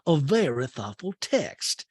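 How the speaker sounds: slow, drawling put-on voice; Sutton. Housewife defending her text, slow drawled imitation. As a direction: imitate a housewife measuring out each word. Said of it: "And Sutton's like".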